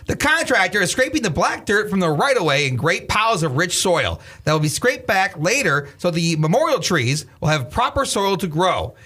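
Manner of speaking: lightly voiced news reporter read; Walter Cronkite newsreader. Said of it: "Can I read this like a news reporter".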